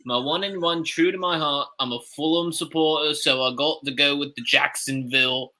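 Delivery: put-on British accent for a sports pick. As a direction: give the pick as a mock Brit. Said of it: "This is just my British alter ego".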